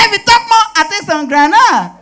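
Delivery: high, loud menacing threat; threatening yell. Acted. Thief threatening the Calabar woman, loud and high. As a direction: bark a threat at the old woman.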